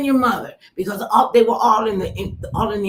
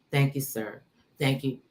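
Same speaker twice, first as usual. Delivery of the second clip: nearly weepy; 6 semitones lower, 6 dB quieter than usual. Real, not acted. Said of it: "I don't wanna get weepy".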